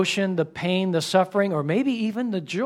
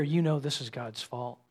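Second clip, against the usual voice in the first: whispered temptation; 6 semitones lower, 11 dB quieter than usual. Retold or imitated. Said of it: "Satan is gonna whisper in your ear".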